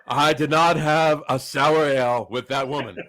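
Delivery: lightly voiced presidential denial, amused; a hint of a solemn politician's denial; Bill Clinton. Joking denial about sour ale, light presidential impression. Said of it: "had a Bill Clinton thing".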